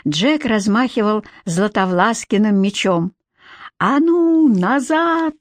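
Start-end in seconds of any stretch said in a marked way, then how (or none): 3.8-5.3 sharp high shout; yelling. Acted. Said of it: "заорал Джек". (громкий окрик)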